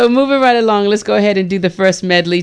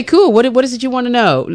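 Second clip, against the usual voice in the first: eager reply; 8 semitones higher than usual. Retold or imitated. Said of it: "I'm like".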